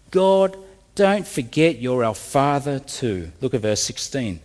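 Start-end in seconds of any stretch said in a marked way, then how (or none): 0.1-3.3 slow, mildly begging appeal to God; desperate plea. Retold or imitated. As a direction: draw it out as an acted plea. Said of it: "they plead in desperation. They beg".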